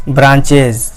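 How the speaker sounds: ब्रांचेज ending in a voiced "iz"; iz plural ending. Shown as a demonstration. Teacher showing the plural of branch, ending voiced as iz. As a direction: say ब्रांचेज with a z/j sound at the end. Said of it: "इज के तरह लेंगे".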